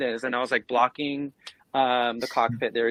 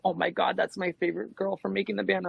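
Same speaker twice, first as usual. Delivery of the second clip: starstruck gasp; 7 semitones higher, 4 dB quieter than usual. Retold or imitated. Fan spotting his favorite singer.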